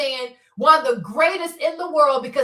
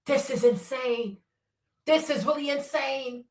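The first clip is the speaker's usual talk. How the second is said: awed hush; 3 semitones lower, 5 dB quieter than usual. Retold or imitated. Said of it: "I'm like".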